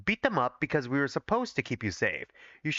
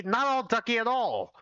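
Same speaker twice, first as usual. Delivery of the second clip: higher, pushed-up protest; rising protest; 7 semitones higher than usual. Acted. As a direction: throw the phrase back, climbing in pitch. Escalating denial, higher and far.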